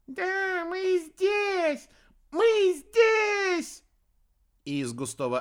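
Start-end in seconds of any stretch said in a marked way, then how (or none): 0.1-3.8 very high squeaky chant; excited cubs. A narrator's reading. Cubs jump out at the witch, squealing. Otter cubs shouting together.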